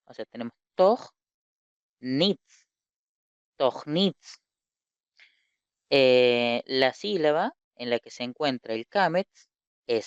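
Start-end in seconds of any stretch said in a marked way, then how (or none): 0.7-4.4 "toj, nitz" in separated syllables; "toj... nitz", each syllable set apart; shown reading. Shown as a demonstration. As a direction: say "toj" with O and a rasped end, then "nitz". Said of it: "Ahí dice to".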